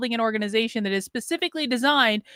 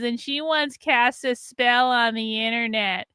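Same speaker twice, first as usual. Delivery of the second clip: mocking paraphrase; slower than usual. Mock paraphrase of critic's tweet.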